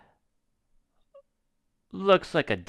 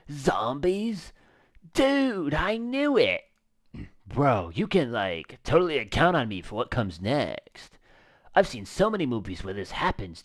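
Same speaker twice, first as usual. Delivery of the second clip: laid-back surfer dude visitor, lightly voiced. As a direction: play him as a chill, clueless surfer bro.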